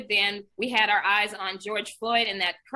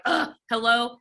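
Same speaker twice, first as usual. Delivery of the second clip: aggressive answer; 3 semitones higher, 4 dB louder than usual. Retold or imitated. Answering a private midnight call in her feelings, aggressively. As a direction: re-enact an annoyed, put-upon hello. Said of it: "I answer so aggressively".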